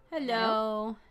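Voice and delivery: tinny radio voice; like talking through a toy radio; toy walkie talkie. Real, not acted. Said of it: "your walkie-talkie voice on Discord".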